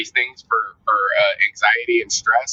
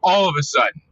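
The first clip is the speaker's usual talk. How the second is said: higher, fed-up "screw it" voice; body giving up; 7 semitones higher than usual. Retold or imitated. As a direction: toss your hands up and snap. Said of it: "The body just went".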